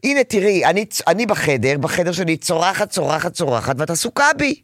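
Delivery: put-on defiant child. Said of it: "שאת לא קובעת עליי".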